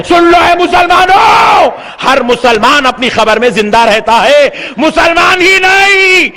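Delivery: calls out, then drops into the teaching; fiery preaching. Acted. Preacher telling Muslims that everyone lives in the grave, preaching. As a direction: preach it to the crowd.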